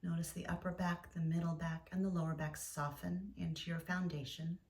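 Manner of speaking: gentle yoga nidra guidance with long pauses; guided meditation. Acted. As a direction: guide listeners into stillness, leaving space between phrases.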